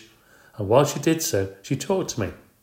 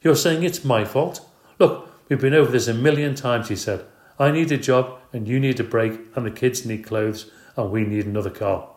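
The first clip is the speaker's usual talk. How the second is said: put-on husband exasperated with the old argument; exasperated outburst; 3 semitones higher, 5 dB louder than usual. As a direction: vent all the needs at once.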